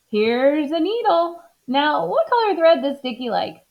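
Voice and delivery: high, eager helper voice; cheerful Amelia. Acted. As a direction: offer it brightly and helpfully. Amelia offers to sew.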